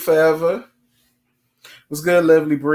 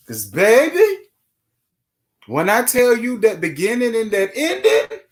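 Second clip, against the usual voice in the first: gushing; 7 semitones higher than usual. Real, not acted. Gushing about the show.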